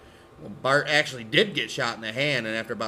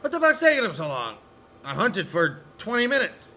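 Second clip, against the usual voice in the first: put-on annoyed kid voice; 7 semitones higher than usual. Confused Jimmy.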